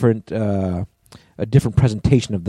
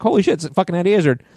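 excited; 8 semitones higher, faster than usual. Retold or imitated. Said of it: "And I was like".

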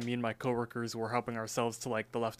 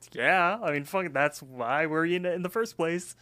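exasperated retort; 5 semitones higher, 4 dB louder than usual. Retold or imitated. Retelling workers' exasperated reply to managers.

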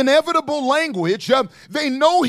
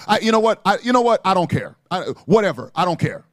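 mock indifferent shrug; 5 semitones lower, faster than usual. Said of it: "language like, "I don't care".

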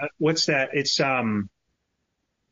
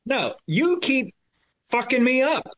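high, slow, whiny protest; mock whine; 12 semitones higher, slower than usual. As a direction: drag it out in a put-on whine. Blaming cohost for losing track.

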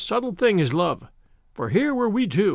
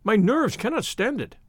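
terrified; 5 semitones higher than usual. Acted. Thaddeus terrified, blubbering.

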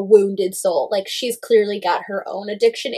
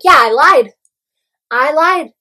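loud, higher-pitched mock confession; mock taunting; 4 semitones higher, 4 dB louder than usual. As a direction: imitate her goading him, punchy and raised. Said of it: "teasing him".

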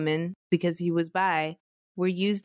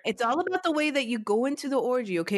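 fast, higher hammed-up life-coach pitch; motivational speaker; 5 semitones higher, faster than usual. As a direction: sell it like a cheesy coach. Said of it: "You just sound like a motivational speaker".

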